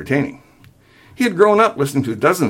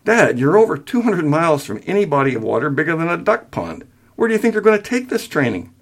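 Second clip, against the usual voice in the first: patient; 7 semitones higher than usual. Acted. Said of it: "Patiently, William said".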